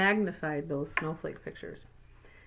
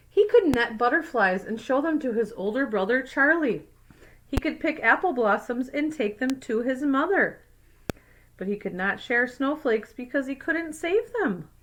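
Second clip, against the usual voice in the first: put-on clear, even read-aloud voice for kids; story narration; 3 semitones higher than usual. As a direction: read it like a picture book to a class. Reads picture book aloud.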